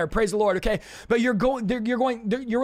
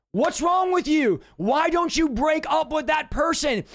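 higher, exasperated disbelief; incredulous confronting friend; 5 semitones higher than usual. Retold or imitated. Friend asks why they stay, in exasperated disbelief. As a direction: demand it like a baffled friend.

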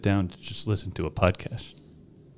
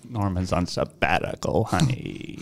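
quoting a character; 2 semitones lower, 4 dB quieter, slower than usual. Retold or imitated. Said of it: "he says".

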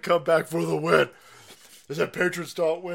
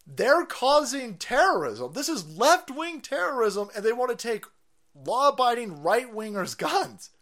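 tag; 5 semitones higher than usual. Real, not acted. Heated political rant.

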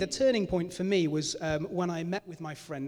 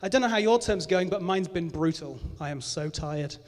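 melodramatic reading; 4 dB louder than usual. Retold or imitated. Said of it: "This is such a melodramatic post".

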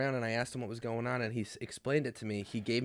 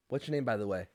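soft demo; 2 semitones lower, 5 dB quieter, faster than usual. Shown as a demonstration. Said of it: "How about this?".

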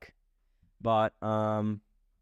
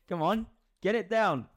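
high, giggling egging on; laughing encouragement; 8 semitones higher than usual. Real, not acted. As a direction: laugh while urging him on. Cheering friend eating chili.

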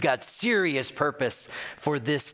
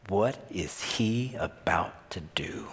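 hushed, slower awestruck whisper; awed whisper; 6 semitones lower, 3 dB quieter than usual. Acted. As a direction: breathe it in wonder. Awed believers in the storm.

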